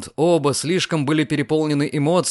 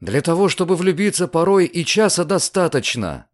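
eager and pressing, a touch raised; impatient exclamation; 5 semitones higher than usual. Acted. Lucian impatiently insisting to Diana, eager. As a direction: push the point impatiently. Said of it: "нетерпеливо воскликнул Люциан".

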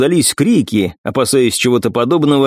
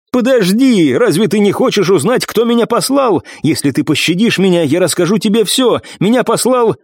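frantic bargaining; 8 semitones higher than usual. Acted. Wounded man bargaining for life.

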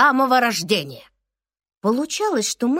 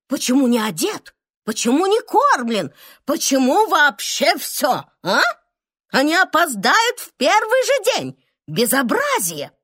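worried fussing; 3 semitones higher than usual. Acted. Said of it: "начали волноваться".

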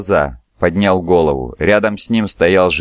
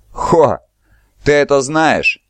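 higher, mocking laugh in the voice; 8 semitones higher, slower than usual. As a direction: scoff it with a laugh. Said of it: "смеялся Кланет". (со смехом)

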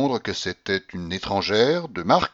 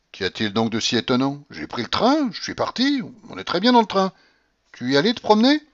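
put-on loud, high, imperious old lady; old grandmother shouting; 6 semitones higher, 4 dB louder than usual. A narrator's reading. Grandmother shouting at the stunned tutor, imperious and loud. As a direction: bark at him like a domineering grandmother.

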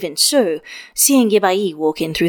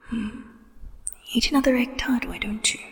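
mocking hushed whisper; ghostly lover teasing his hunger; 4 semitones higher, 8 dB quieter than usual. A narrator's reading. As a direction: tease him under your breath. Wen Kexing always whispered.

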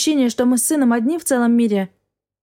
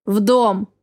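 curt order; 2 semitones lower than usual. A narrator's reading. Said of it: "приказал он".

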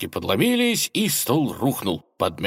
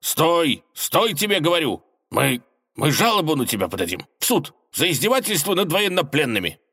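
yelled; 8 semitones higher than usual. A narrator's reading. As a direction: shout the threat from the barrel. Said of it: "заорал".

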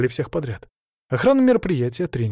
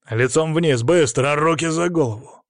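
barked command; 4 semitones higher, 4 dB louder than usual. Acted. Riot cop orders detainee down.

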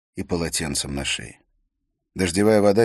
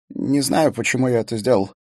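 robot voice; 7 semitones higher, 7 dB louder than usual. A narrator's reading. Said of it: "прошептал Смит металлическим голосом робота".

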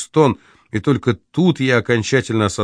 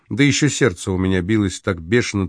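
usual speaking voice

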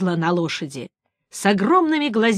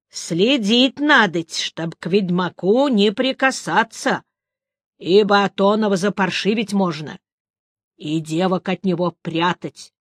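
put-on old woman voice. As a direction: read it like an old crone.

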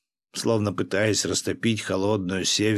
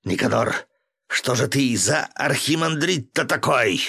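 shouting; 5 semitones higher than usual. A narrator's reading. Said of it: "и заорал".

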